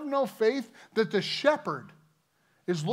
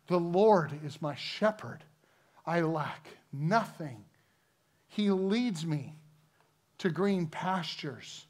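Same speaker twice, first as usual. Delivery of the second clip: scripture reading. Acted. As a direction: read the psalm to the congregation, savouring each line. Preacher reads Psalm 23 aloud.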